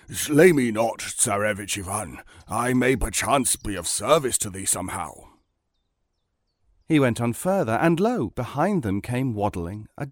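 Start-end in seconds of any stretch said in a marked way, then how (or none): 0.1-5.1 lightly voiced pleading bear; imploring bear. Bear begging the Tsarevich to spare it, imploring. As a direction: plead for your life as a bear. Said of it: "the bear implored him".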